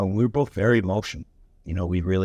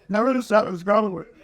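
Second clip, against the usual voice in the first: mock distress; 11 semitones higher, faster than usual. Tough guy fighting tears.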